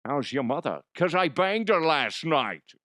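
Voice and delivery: lightly voiced taunting bro; smug your-mom joke. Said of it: "All I'm saying is".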